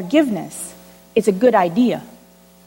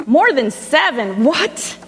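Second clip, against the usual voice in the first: surprised; 3 semitones higher, slower than usual. Acted. Peter surprised at answer.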